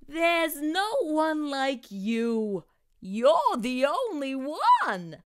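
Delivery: slow, gentle reassurance; tender mother voice. Acted. Mom comforts her son.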